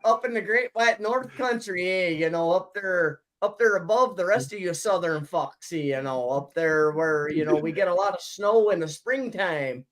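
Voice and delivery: mock Canadian accent. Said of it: "You sound like a leprechaun".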